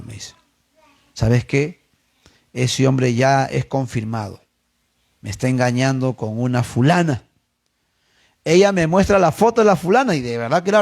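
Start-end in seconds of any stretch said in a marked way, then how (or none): 1.1-7.2 low, subdued imitation of sorrow; retold tearful confession. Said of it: "Y llorando me dice".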